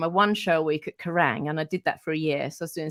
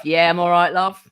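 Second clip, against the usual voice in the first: deeper Corey voice; 8 dB louder than usual. Retold or imitated. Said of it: "his voice is a little bit deeper".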